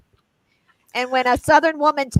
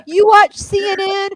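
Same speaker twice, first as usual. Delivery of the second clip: slow, lowered mock pity; Southern woman; slower than usual. Southern woman pitying a CNN watcher, slow mock sympathy. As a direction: let the sympathy drag, lightly mocking. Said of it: "if a Southern woman says".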